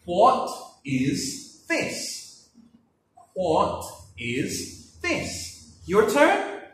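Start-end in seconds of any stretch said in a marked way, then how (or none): 0.0-2.5 slow model question. Shown as a demonstration. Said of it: "Let's practice our sentences now". 3.3-5.8 slow model question. Shown as a demonstration. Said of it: "Let's practice our sentences now".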